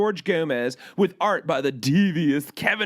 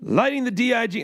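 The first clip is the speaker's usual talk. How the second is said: light Orson Welles voice; a hint of Orson Welles; 4 semitones higher, faster than usual. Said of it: "I'll do it like Orson Welles".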